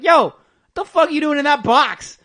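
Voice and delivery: high, very loud mock outrage; hammed-up shocked demand; incredulous yell. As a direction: yell in disbelief down the line. Expert acted as shocked by box.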